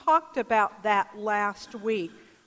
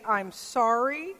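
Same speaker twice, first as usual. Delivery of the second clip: slow instruction; slower than usual. Retold or imitated. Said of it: "And so the father said".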